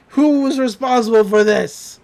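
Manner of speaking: loud mock outrage; angry demand. Pool boss finds wrecked fence, mildly hammed-up anger. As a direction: demand it like a boss finding damage.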